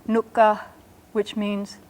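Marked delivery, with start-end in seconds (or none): 0.1-0.6 "nukka" with the K held long; double K. Shown as a demonstration. Teacher models "nukka", doubling the K. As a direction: press and hold the K in "nukka". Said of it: "with a double K".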